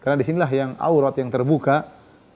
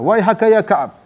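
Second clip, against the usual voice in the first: grand proclamation; 6 semitones higher, 5 dB louder than usual. Retold or imitated. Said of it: "Kemudian dia berkata".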